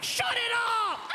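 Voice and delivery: very high, drawn-out squealed shout; high shrieking plea; helpless shout. Retold or imitated. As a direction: beg through hysterics, stretching the words. Cop laughing helplessly, begging them stop.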